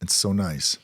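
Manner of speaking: talking while chewing; words around a mouthful; chewing noisily. Real, not acted. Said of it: "I'm sorry I'm chewing on a microphone".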